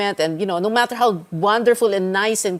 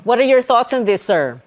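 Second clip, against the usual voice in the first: repeated louder and higher for a bad line; 3 semitones higher, 4 dB louder than usual. Real, not acted. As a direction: say it again louder so he hears. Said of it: "how's that again?".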